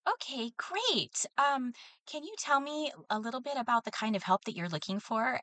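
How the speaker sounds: pleasant caller lady. Retold or imitated. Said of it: "very pleasant sounding lady".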